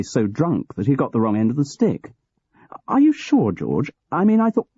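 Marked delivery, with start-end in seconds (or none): 2.9-4.7 much higher, louder shocked question; stunned disbelief. Acted. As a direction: hit it with disbelief. Graham stunned by news.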